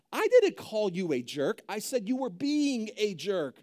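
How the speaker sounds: mildly indignant mock self-justification; defensive. Acts out a defensive spouse in argument.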